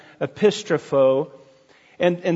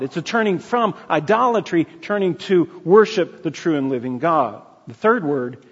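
ordinary talk

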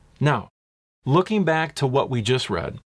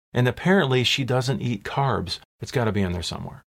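facetious. Real, not acted. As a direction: tease the congregation with a wry aside. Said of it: "I'm being a little bit facetious".

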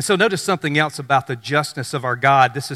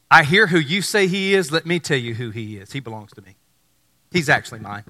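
calm assurance; 2 semitones lower than usual. Acted. God answering Ananias, calm and firm.

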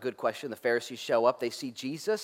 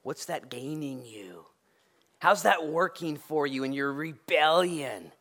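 the Lord asking; 2 semitones lower, 3 dB quieter, slower than usual. Retold or imitated. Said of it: "And the Lord would say".

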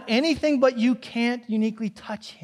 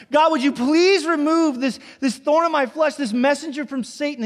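crying out to God; 5 semitones higher than usual. Retold or imitated. Paul begging God to remove his thorn, in a raised plea. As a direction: beg God to take it away. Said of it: "he cries out to God three times".

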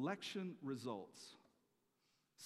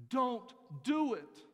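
high, slow, loud plea shouted out; retold shout of Paul begging the jailer to stop; yelling out; 11 semitones higher, 12 dB louder, much slower than usual. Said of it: "He's yelling out to them".

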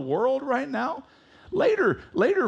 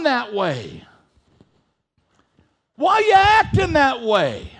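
voice of God; 11 semitones higher, 7 dB louder than usual. Retold or imitated. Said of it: "And God said".

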